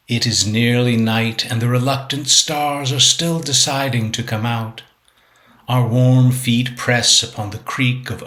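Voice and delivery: measured, deliberate poetry recital; poem reading. Acted. Poet reads own sonnet six eighty-five to viewers, measured recital. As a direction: recite the sonnet line by line, with pauses.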